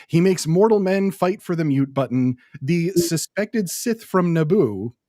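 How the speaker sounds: booming fight intro; ring announcer. Shown as a demonstration. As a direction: announce him like a title bout. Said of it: "my ring announcer voice going here".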